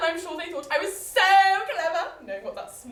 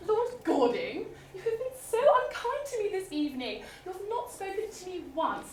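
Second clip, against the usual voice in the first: mock-prim lady; 6 semitones higher than usual. Heroine's mock-prim plea to lord.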